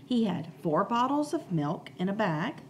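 storytime reading with suspense on the cracks; reading to children. A narrator's reading. Teacher reading the class chapter book, storytime voice.

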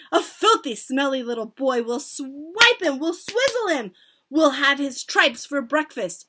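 high, loud gloating outcry; cried out. A narrator's reading. Witches plotting against a boy, cried out. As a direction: relish each threat, loud and high. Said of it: "cried the witches".

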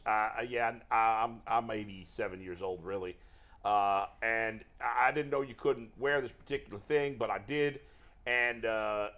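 lightly put-on Southern accent; old manager rambling in a mild mock Southern accent; hint of a Southern accent, unhurried; Terry Francona. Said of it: "stop doing the Southern accent".

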